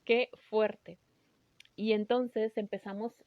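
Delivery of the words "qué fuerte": higher, louder weepy exclamation; a tearful "oh dear God"; tearful outcry. Retold or imitated. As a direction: cry out half-sobbing. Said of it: "las dos llorando".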